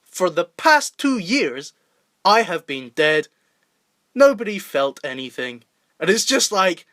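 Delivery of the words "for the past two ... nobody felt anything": emotionless Tommy Wiseau. Retold or imitated. Imitating the actor's flat pilot line in a fake English accent. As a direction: drone it with no feeling at all. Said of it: "And the way he says it is".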